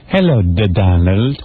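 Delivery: mock Ivana accent. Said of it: "listen to that accent".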